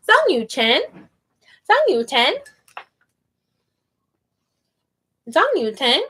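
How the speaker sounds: "Zhang" with the G barely heard; "Zhang" close to "Zan", G barely there; soft final G. Shown as a demonstration. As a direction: say "Zhang Yu Chen" with the G almost dropped. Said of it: "barely a G on there".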